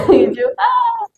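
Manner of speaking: a high, sheepish little "ah"; a small high "oh, right"; sheepish realization. Retold or imitated. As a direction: concede with a high embarrassed ah. Realizing father was right.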